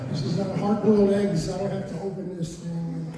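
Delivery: soft, teary half-sob of relief; retold crying. Recovering addict remembering his first free meal, softly teary. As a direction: let the tears creep in over a simple meal. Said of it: "just crying".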